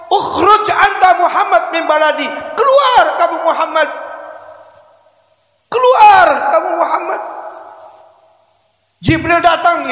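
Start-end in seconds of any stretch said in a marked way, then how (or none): 0.1-7.2 hostile shout. Acted. Taif people chase him away.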